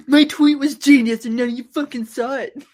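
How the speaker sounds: high, mock-indignant rant about a tweet; mock outrage. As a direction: play the wounded ego, half-joking.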